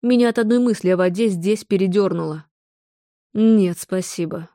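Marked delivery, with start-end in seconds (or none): 3.3-4.5 slow, rasping croak; hoarse. Acted. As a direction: rasp it out slowly. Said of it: "прохрипела я". (хриплым голосом, медленно)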